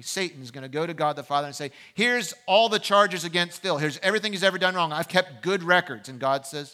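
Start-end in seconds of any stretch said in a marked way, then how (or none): 1.9-6.1 slightly raised, emphatic courtroom accusation; mock prosecutor pressing the case; prosecuting attorney. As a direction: lay out the charges loudly, a hint of a prosecutor. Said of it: "the prosecuting attorney".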